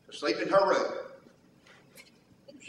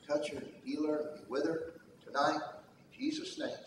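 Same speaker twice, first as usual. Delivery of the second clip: much softer and lower, a tender murmured prayer; hushed bedtime prayer; 3 semitones lower, 11 dB quieter than usual. Retold or imitated. Father praying softly over his daughter at bedtime, hushed. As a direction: pray over her quietly so she drifts off.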